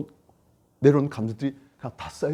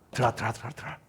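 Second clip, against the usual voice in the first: forcing it down; 3 semitones lower, 5 dB quieter, much faster than usual. Acted. Pushing feelings back down.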